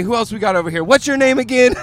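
mock an eager roving interviewer; imitated hype host. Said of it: "then she pans on me".

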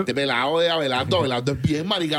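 lightly mocked Colombian coastal accent; a touch of Colombian costeño twang; playful Colombian coast accent, barely put on. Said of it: "un colombiano de la costa es como".

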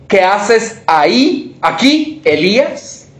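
slow, tender question from God; gentle voice of God. Shown as a demonstration. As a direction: ask it slowly and tenderly, like a gentle whisper of care. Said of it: "en un murmullo suave".

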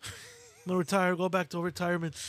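badly faked British accent, lightly put on; a half-hearted go at Tyson Fury's British accent. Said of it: "That's my worst accent".

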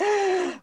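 mock sobbing intake of breath; quick gasp; sharp gasp. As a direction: gasp as if weeping. Acts out weeping with a gasp.

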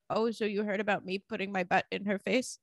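story voice for a retold line; lightly put-on storytelling character voice; Lord Farquaad voice. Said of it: "that's also your default voice that you go to during stories".

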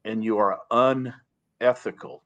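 slow, steady, calm rebuke; measured, slow and calm condemnation. Shown as a demonstration. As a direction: say it calmly, slowly, no heat. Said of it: "let me be very calm when I say that".

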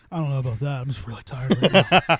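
putting on a tired voice; feigned tiredness. Retold or imitated. Husband denies to wife that he smells of beer, feigning tiredness. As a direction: play it worn out to hide being drunk. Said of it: "I just start pretending I'm super tired".

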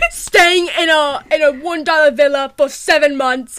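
mock YouTuber intro, building in volume; Bentham. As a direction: put on a YouTuber's giveaway-video voice. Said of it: "your voice for Bentham".

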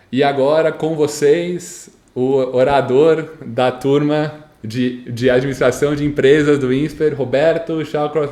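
lightly imitated ceremony emcee; ceremony announcer. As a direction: announce the graduation speaker grandly.

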